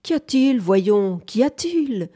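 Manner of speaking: high-pitched, gentle bewilderment; sweet voice, a little alarmed; astonished, slightly scared. A narrator's reading. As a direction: ask in startled surprise. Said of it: "dit la voix douce, étonnée, un peu épouvantée".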